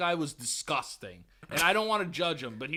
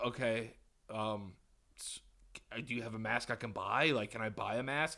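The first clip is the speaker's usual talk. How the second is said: retold polite request; 7 semitones lower, 7 dB quieter than usual. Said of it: "really polite".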